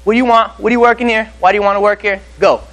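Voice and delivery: straightforward. Retold or imitated. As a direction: fire questions straight at the candidate. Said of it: "I'm gonna be straightforward".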